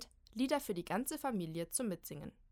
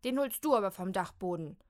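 scolding; 7 dB louder than usual. Acted. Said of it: "schimpft Kim".

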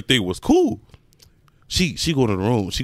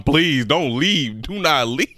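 slow, mildly mock-desperate begging; retold tearful plea; slower than usual. Boyfriend on the step begging her to stay, retold tearful plea. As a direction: stretch out an imitated plea. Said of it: "Nigga, I'm still crying".

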